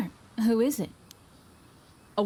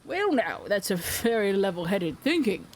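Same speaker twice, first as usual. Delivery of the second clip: lightly voiced old islander; 2 semitones lower than usual.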